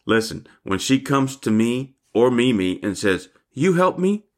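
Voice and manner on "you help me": put-on high toddler voice, half demanding, half asking; Stormy. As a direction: imitate a little granddaughter's expectant plea. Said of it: "she is demanding as much as she is asking".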